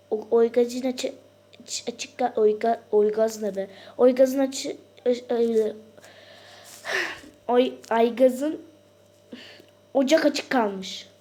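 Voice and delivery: loud, slow alarmed calling; panicked shouting. Pretend. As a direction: struggle to read the label in alarm. Panicked about gas stove.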